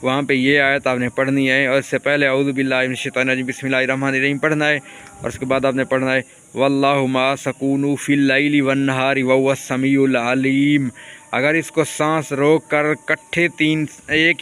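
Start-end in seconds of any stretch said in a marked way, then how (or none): 2.3-4.4 quick recitation. Shown as a demonstration. Recites ta'awwuz and bismillah again. 6.6-10.9 recited verse. Shown as a demonstration.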